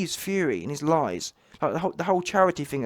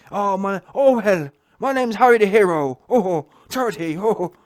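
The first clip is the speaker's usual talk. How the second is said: louder, higher hammed-up pirate; mock pirate voice; 4 semitones higher, 7 dB louder than usual. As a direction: play Fury as a boastful pantomime pirate. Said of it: "Giving it all the pirate voice".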